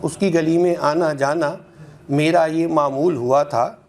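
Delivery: measured, rhythmic mushaira delivery; ghazal recitation. Acted. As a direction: recite in metre, lingering on each half-line. Resumes after addressing listener. (ग़ज़ल का लयबद्ध पाठ)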